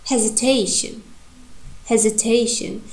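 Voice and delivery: "hesitation" with main stress on TA; stress on third syllable. Shown as a demonstration. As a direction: let TA carry "hesitation". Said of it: "the third syllable, te".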